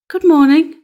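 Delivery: put-on girl's greeting. Red Cap greets grandmother.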